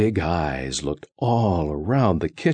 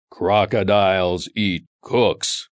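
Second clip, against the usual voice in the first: deep loud crocodile. Acted. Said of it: "In a deep, loud voice".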